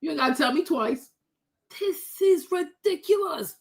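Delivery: normal talking voice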